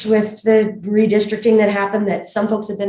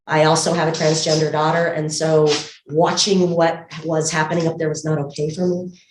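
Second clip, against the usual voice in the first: muffled speech through a mask; talking behind a medical mask; through a face mask. Real, not acted. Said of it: "hopefully you can hear me through the mask okay".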